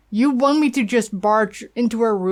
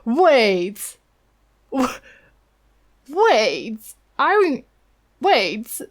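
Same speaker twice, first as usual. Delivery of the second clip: excited realisation; much slower than usual. Real, not acted. Gamer spotting the quest connection, excited calls. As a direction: shout it as it clicks.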